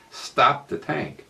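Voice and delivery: mock yell from a storyteller; retold yell. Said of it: "Walter yells out in the tank".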